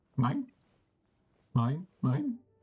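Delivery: squawky bird calls, swinging up and down in pitch. Stuck repeating the word 'mine', in a Finding Nemo seagull voice. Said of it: "I sound like the fucking seagulls from uh, Finding Nemo".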